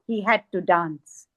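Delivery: low, resigned-sounding recited line; subdued poetic refrain. Acted. Poet recites the dancer's plight, subdued recitation. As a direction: let the line drop low. Repeated line within the poem.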